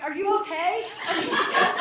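comically frantic repeated question; acted anxious check. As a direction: check on the baby in a mock panic. Acted check on screaming baby.

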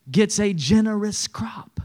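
slow, breathy whisper on the payoff. Shown as a demonstration. Preacher whispering the promise of a generous crop to the church. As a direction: whisper it slowly for emphasis. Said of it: "unvoiced whisper".

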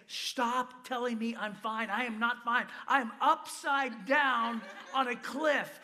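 slow, emphatic mock outrage; exasperated protest. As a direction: spell it out slowly, retelling your indignation. Retells protesting while hanging upside down.

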